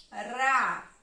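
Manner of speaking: "Ra" drawn out as one syllable; isolated, stretched "Ra"; syllable marking. Shown as a demonstration. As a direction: hold "Ra" on its own for counting. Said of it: "eu vou marcar a sílaba".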